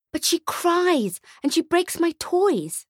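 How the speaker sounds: high, slow whine; a little boy sulking; whiny child. Acted. Boy to Santa about his sister, slow and whiny.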